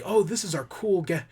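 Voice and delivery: imitating the show hyping its cool guest star; mock hype intro. Reviewer mocks the show's guest intro, playful hype. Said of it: "They always say it like that".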